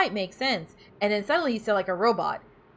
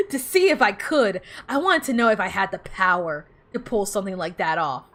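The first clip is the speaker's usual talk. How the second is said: excited; 5 dB louder than usual. Real, not acted. Playful high answer to chat.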